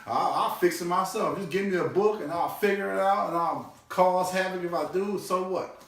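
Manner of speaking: a hint of Bill Cosby's breezy bluster; Bill Cosby impression. Dad brushing off advice, a light hint of Bill Cosby. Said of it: "kinda like Bill Cosby did".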